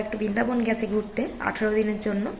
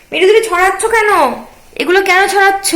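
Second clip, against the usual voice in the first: mother cooing at her little daughter, higher; 8 semitones higher, 9 dB louder than usual. Real, not acted. Mother scolds toddler for mess.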